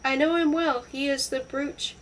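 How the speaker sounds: husband's emphatic outcry; crying out. A narrator's reading. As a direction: exclaim it with mild disdain. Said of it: "cried Lawrence".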